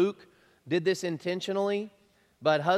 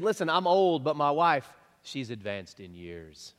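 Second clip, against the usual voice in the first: tactful version; 2 semitones lower than usual. Shown as a demonstration. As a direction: ease into it diplomatically. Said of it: "He said".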